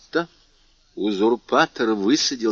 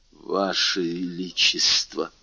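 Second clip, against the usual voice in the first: soft, slow, hesitant babble; a timid, faltering plea to the king; faltering murmur; 4 semitones lower, 4 dB quieter, slower than usual. Acted. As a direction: stammer it out, afraid to speak. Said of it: "пролепетал барон".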